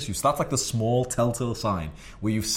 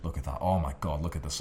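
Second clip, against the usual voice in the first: quiet admiring; 5 semitones lower, 5 dB quieter than usual. Retold or imitated. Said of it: "That's the point where I'm telling her".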